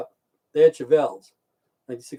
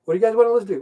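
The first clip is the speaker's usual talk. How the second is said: imitating friends; 7 semitones higher, much faster than usual. Friends asking what music to play.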